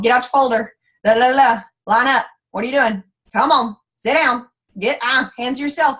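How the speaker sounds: a nagging teacher barking at eight-year-olds. Retold or imitated. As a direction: rattle off orders at restless kids. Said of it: "I can sit here and go all day long".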